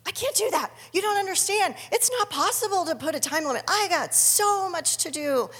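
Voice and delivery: high, fast, mock-panicked protest; frantic protest. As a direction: play your old overwhelmed self pushing back. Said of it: "which was".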